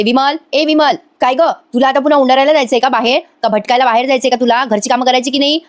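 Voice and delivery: calling out sharply to the maid; hammed-up bossy scolding, raising the voice on the name; mock scolding. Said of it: "drama चालू करते".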